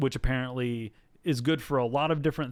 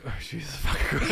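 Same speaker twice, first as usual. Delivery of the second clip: laughing exasperation. Retold or imitated.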